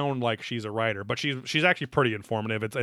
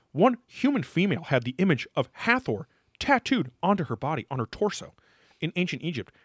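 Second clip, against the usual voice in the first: imitating host; 6 semitones higher than usual. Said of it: "he says".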